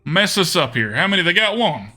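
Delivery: put-on Southern US accent. Streamer wondering what the opponent can do, Southern accent. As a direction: weigh the odds in a Southern accent. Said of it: "I really like doing the accent".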